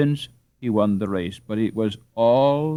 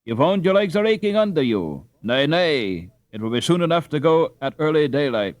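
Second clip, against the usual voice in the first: higher, louder fussing mother; scolding mother; 6 semitones higher, 5 dB louder than usual. Acted. Mother forbidding Hans to go tonight, fussing.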